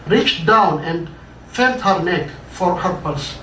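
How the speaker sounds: measured, dramatic read-aloud narration; story reading. A narrator's reading. Author reading his own story to an audience, dramatic narration. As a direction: tell the tale to a listening audience.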